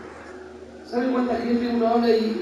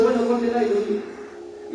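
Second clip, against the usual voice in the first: calm father quote; 3 dB quieter, slower than usual. Retold or imitated. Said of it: "llega el papá y le dice".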